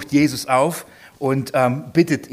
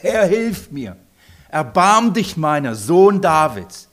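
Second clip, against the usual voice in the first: slow, louder begging cry; desperate plea; 6 dB louder, slower than usual. Acted. Woman at Jesus' feet begging for help, slow loud plea. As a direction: beg him for mercy, drawing it out.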